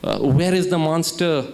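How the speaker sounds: a touch of retold panic; panicky. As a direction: blurt it out in mock alarm. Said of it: "he's all panicky".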